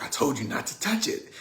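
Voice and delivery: mildly voiced cross big brother, a little high; angry brother. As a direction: scold a little sister with restrained mock anger. Angry brother confronts sister.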